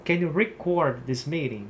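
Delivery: record stressed reCORD; example sentence. Shown as a demonstration. Teacher modelling the verb record for students. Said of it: "no sentido de gravar".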